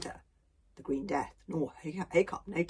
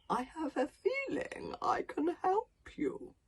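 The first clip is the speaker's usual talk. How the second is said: sleepy dragon voice; 5 semitones higher, 9 dB louder than usual. Acted. Yawning dragon.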